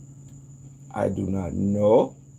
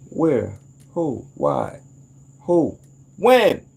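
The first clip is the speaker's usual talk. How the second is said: escalating questions; 3 semitones higher, much slower than usual. Acted. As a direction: fire off each question, the last one a yelp. Rapid questions rising to yelp.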